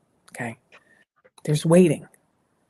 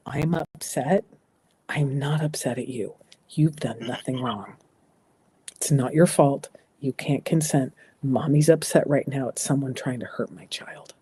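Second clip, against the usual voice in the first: calm honest reassurance; 2 semitones lower than usual. Shown as a demonstration. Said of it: "to let our kids know".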